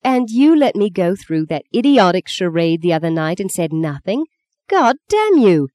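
furious at his secret; angry outburst. Acted. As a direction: spit it at him, too angry to speak. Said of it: "She was so angry she couldn't speak properly".

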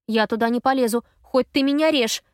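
rattled, breathless refusal. A narrator's reading. Effie ducks back in after a passing car, breathless. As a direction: gasp it out after the scare. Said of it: "выдыхаю я".

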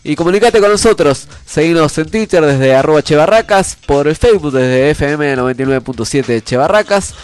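stuffy nose from a cold; nasal voice. Real, not acted. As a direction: speak through blocked-up sinuses. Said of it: "Perdón por esta voz nasal".

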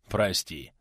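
a hint of gentleness; softened. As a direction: say it gently, backing down. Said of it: "Тут же смягчился дружинник".

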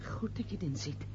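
soft, breathy whisper; hushed and cold, almost under her breath. Acted. Mother hushing her son with a satisfied whisper.

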